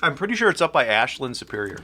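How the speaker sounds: words round a bite of food; mouth full. Real, not acted. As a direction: still chewing while talking. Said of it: "I'm speaking with my mouth full".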